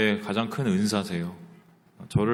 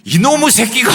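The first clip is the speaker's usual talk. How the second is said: a high, loud, explosive curse; the gentle pastor suddenly erupts in rage; furious yell; 13 semitones higher, 10 dB louder than usual. Retold or imitated. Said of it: "처음 본 모습을 보였는데". (폭발하듯 높고 큰 분노의 고함)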